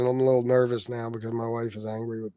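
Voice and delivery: nervous, stumbling over words; nervous stutter. Real, not acted. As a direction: stammer it out nervously. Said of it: "I'm stuttering".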